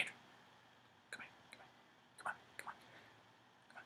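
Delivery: hushed whisper, barely voiced; secretive whisper. Pete whispers to Andrew to follow him upstairs, hushed whisper. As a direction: whisper it like a conspiracy.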